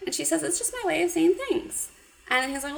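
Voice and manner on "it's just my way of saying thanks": put-on coy girl voice. Girl quoted in recap.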